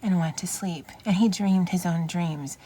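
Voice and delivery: gentle storybook read-aloud; reading to children. Acted. Reading picture book aloud.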